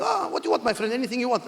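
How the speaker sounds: a salesman keen to please; eager host. Retold or imitated. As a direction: guide eagerly offering anything. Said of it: "He goes".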